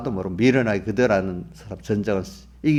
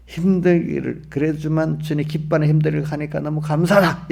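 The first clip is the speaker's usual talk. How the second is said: higher, acted thankful declaration; emphatic gratitude; 4 semitones higher, 3 dB louder than usual. Preacher models a believer thankful on a hard road, emphatically grateful. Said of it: "이렇게 얘기 안 되겠어요?".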